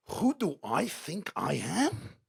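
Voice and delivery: slow, incredulous echo of the question; drawn-out retort, rising at the end; indignant daughter. Retold or imitated. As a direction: imitate a daughter throwing the question back. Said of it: "Her daughter looked at her".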